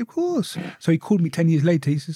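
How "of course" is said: much higher, soft reassurance; reassuring. Retold or imitated. Promising the ex, high and soft. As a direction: lift it high and gentle. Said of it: "I said".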